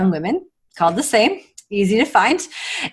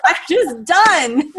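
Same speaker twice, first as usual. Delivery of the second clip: imitating son; 8 semitones higher, much slower than usual. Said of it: "he's like".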